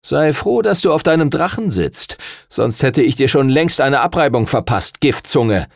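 menacing call. Acted. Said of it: "rief Darius".

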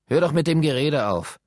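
grouchy and fed up; bad-tempered. A narrator's reading. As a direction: crossly tell them to stop. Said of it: "da wurde er stets schlechter Laune".

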